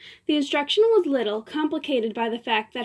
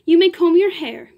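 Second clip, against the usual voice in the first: imperious; 5 semitones higher, 8 dB louder than usual. Acted. Diva orders the uncle.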